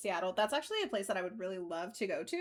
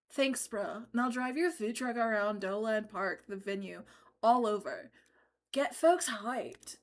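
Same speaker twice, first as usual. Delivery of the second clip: surfer dude voice. Acted. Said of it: "That is such a great bro voice".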